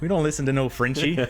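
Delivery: bad Minnesota accent. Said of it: "same idea as they're like".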